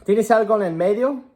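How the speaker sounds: high, loud hesitant patient voice; patient on the phone. Retold or imitated. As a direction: play a fussy caller who can't make that time. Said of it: "They'll say".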